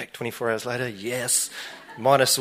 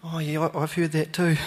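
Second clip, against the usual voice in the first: laughing reply; 5 semitones higher than usual. Retold or imitated. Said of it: "I'm like".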